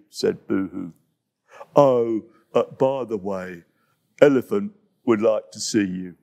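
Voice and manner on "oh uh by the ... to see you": lumbering big animal voice; low dopey hippo voice. Acted.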